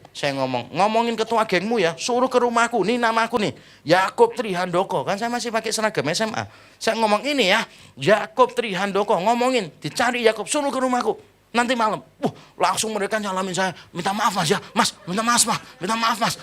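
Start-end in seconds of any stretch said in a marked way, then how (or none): 0.7-5.1 retold defiant challenge, pitched up; bold challenge. Acted challenge to gang members. 7.2-12.0 retold defiant challenge, pitched up; bold challenge. Acted challenge to gang, repeated. 13.9-16.3 imitated hasty apologies, higher-pitched; apologetic pleading. Gang members hastily beg forgiveness.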